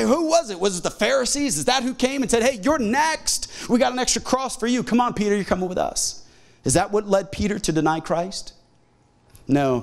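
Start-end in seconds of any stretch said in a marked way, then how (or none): 0.0-6.2 higher-pitched confrontational taunt, lightly acted; mock accusing. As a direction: play a mob calling someone out. Acts out accusers confronting Peter.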